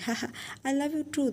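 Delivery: quick, giggly laugh into the words; laughing fondly. Acted. Father playing with his giggling son, laughing. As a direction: laugh as you say it, fast.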